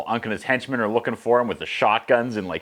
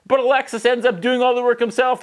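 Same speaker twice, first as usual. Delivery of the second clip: high, incredulous complaint; mock disbelief; exasperated; 13 semitones higher, 3 dB louder than usual. Real, not acted. Narrator exasperated.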